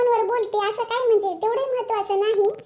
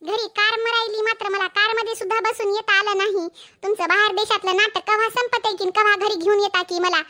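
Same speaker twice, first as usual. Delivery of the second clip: angry scolding. Acted. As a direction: tear into the husband, voice raised. Wife scolding husband on the call.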